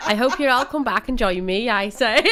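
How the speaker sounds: playful put-on Welsh accent; Welsh leprechaun. Promising listeners a return next week, mock Welsh accent. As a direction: sign off as a silly Welsh leprechaun. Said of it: "Vicky the Welsh leprechaun".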